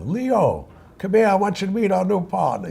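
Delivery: put-on high-pitched call in a heavy Jewish accent. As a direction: summon your brother in a thick Jewish accent. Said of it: "with a heavy Jewish accent".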